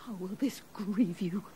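a wronged queen whispers her sorrow to herself; grieving whisper. Acted. The accused queen whispers sadly toward the king. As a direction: breathe it out, barely voiced.

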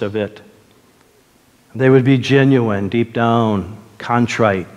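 low, measured pastoral prayer; earnest prayer. Real, not acted. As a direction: pray for someone in misery, pausing between phrases. Leads congregation in prayer.

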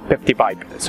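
"Pepti pipe" with P for F: "pepti baibs"; mispronounced fifty five. Retold or imitated. Teacher imitates learners who can't say F, with P for F. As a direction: swap every F for a P in "Pepti pipe". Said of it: "الجنسيات اللي بتحكي لك".

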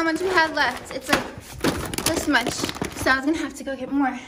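breathless after the stairs; out of breath. Real, not acted. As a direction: still winded from climbing stairs. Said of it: "I'm out of breath from carrying them upstairs".

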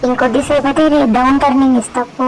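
cheeky sulky pet voice; a lightly put-on sassy pet; voiced pet. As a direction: talk back like a spoiled pet. Pet talks back to owner.

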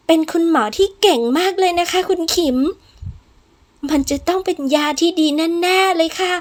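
eager, pleading reassurance; coaxing maid. Acted. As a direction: coax the patient to trust you. Maid coaxing a stubborn young patient.

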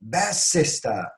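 slow honouring exclamation. Shown as a demonstration. Teacher models honouring a sister, exclaimed. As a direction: stretch it out as praise. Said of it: "onurlandırmak için yüksek sesle".

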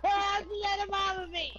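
loud yelling through a laugh; laughing shout. Real, not acted. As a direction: shriek it half-laughing. Panicked at game attacker.

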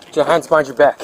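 commanding shout. Real, not acted. Officer orders suspect down.

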